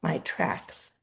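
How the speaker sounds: measured poetry reading with deliberate pauses; poem reading. Acted. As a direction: read your poem aloud, line by line, letting each phrase settle. Reads own poem aloud.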